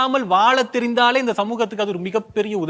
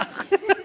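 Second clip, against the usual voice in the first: short high laugh; 11 semitones higher, 4 dB quieter than usual. Real, not acted. Host laughs after plea.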